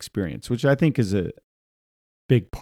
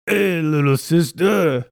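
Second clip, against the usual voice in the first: a bit higher, slow, plain take; plain read character voice; 6 semitones higher, slower than usual. Shown as a demonstration. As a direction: read it the way you'd imagine it. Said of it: "So he gives him that voice".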